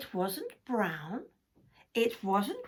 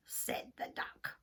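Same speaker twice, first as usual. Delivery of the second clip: whisper; 8 dB quieter than usual. A narrator's reading. Whispered tag.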